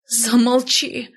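high, drawn-out cry without real volume; roared. A narrator's reading. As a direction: cry out in humiliated rage, held back. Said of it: "взревела я, окончательно опозоренная". (сдержанный гневный вскрик)

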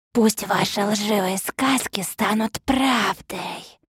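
slow ominous voice; slow menacing curse. A narrator's reading. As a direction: pronounce it like a curse. Похититель проклинает. (медленное зловещее проклятие)

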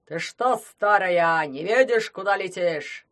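loud, angry scolding roar; furious shout. Acted. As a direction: bellow at the old witch. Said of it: "на чём свет ругал Бабу-Ягу".

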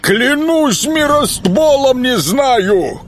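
high, slow protesting creature; swamp creature voice. Acted.

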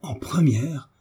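stunned, rising disbelief; bewildered girl echoing the news; astonished. Acted. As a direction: gasp it out in disbelief. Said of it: "d'un air ahuri".

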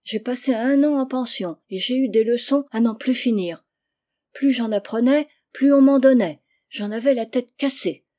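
high, loud exasperated exclamation; spirited schoolgirl grumbling; animated complaint. A narrator's reading. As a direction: pile up the grievance with rising force. Rose exclaims about endless school lessons.

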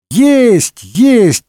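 put-on high, lively kids' shout; children hollering. A narrator's reading. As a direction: holler it like a bunch of kids. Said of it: "хором загорланили дети".

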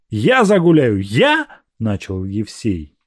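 high, loud indignant oath; Evsey swearing. Acted. Evsey swearing to jealous Agrafena, high and indignant. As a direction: swear by God he'll stay faithful.

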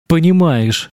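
insist, refusing to back down; stubborn. A narrator's reading. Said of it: "упрямо возразила Верена".

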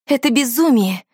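loud high yell of disbelief. A narrator's reading. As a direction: yell it out in alarm. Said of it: "завопила я".

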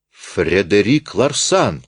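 a slow, understated cry; exclamation. Acted. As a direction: stretch the name out in shock. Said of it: "вскричал председательствующий". (сдержанный возглас, медленно)

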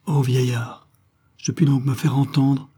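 a touch of joy soured by bitterness; joy mixed with bitterness. Acted. Stranger finally understood by the old man, mild bittersweet joy. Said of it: "avec l'accent d'une joie mêlée d'amertume".

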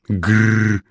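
growling, hammed-up pirate roar. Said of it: "проревела Алекс голосом пирата".

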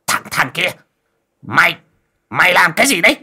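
high-pitched, stammering challenge to an intruder; startled cry of alarm. A narrator's reading. Coffin maker challenging a man he takes for a robber, calling out in alarm. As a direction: call out in alarm, voice jumping high. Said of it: "miệng hô hoán".

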